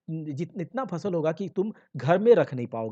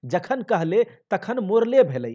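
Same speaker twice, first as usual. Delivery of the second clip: mild crying; 5 semitones higher, 6 dB louder than usual. Acted. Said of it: "रो रो के कह रही है".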